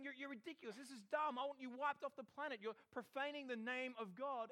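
playing a hostile persecutor; acted angry rant. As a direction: denounce them with rising force. Acting Saul's rant at Christians.

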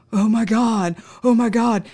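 overjoyed exclamation. Retold or imitated. Officer imitating the stoner hearing his board is safe, overjoyed. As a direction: gush with sudden relief.

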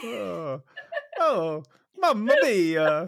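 high, slow Mario cry breaking into laughter; Mario, laughing. Acted. Cohost repeats his joke punchline as Mario, laughing and high. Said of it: "one up my Mamma Mia".

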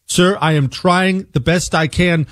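lightly voiced phone agent. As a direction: mimic the confused support rep. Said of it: "this is how it went".

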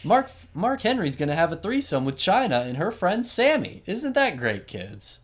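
high, loud, over-cheery announcer; mock show host. Host introducing Mark Henry after serious drama, mock-chirpy. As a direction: hype it up like a hammed-up kids' show host. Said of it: "weird tonal shift".

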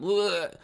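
high-pitched mock "ugh"; mimicked quiver from the gut; imitated shuddering groan. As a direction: groan as if a sob is rising. Imitates quivering stomach before crying.

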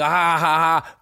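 spelled-out "ha ha" laugh; evenly spaced, put-on ha-ha laugh; mock laugh. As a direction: imitate your own laugh at a joke. Retold laugh at Barkley's joke.

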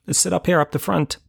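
hammed-up eager call; rallying the boys. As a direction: coax your mates along with exaggerated cheer. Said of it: "to my friends".

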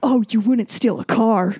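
slow laughing announcer line; laughing imitation of a dramatic ad voice; mock anti-piracy ad. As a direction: intone it like the old anti-piracy ad. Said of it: "pirating video ads".

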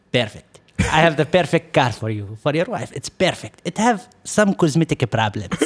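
put-on salesman's pitch in an Arab accent. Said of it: "I'm gonna try to talk to his accent".

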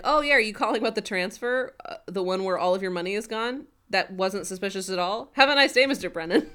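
lightly hammed-up British accent; bad British accent. The speaker taking the bank call about the transfer, bad British accent. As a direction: imitate a badly faked British accent. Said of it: "Barry in his bad British accent".

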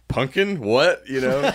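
high, loud shocked squeak; shocked disbelief. Retold or imitated. Reenacts wife's shocked reaction.

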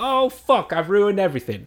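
put-on high, panicked childish cry; panicked kid. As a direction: suddenly realise it's all ruined. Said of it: "being like".

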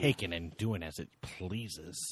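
low, slow, drawn-out patter; mock-sultry improv bit. Co-host riffing on hot portal joke, low slow mock-sultry patter.

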